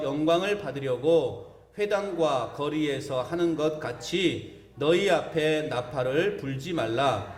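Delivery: slow, measured Bible reading; scripture reading. Acted. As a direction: read the verses out solemnly, phrase by phrase. Congregation reads scripture aloud.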